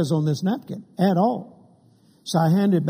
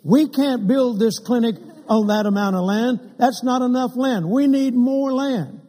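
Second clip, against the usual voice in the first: emphatic demand; 5 semitones higher than usual. Retold or imitated. Oral Roberts demands more land.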